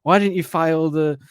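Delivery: mock stern boss. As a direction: bark at the employee. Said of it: "someone goes".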